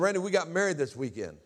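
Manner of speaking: retold mother breaking news, pitch lifted; lightly voiced mother. Mother tells son about her wedding, lightly imitated.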